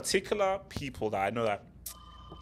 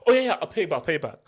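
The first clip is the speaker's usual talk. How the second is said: imitating a borrower's breezy promise, starting high; high-pitched start, quickly tossed away; glib promise; 3 semitones higher, 3 dB louder, faster than usual. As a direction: toss off an easy mock promise. Voicing a borrower's easy promise.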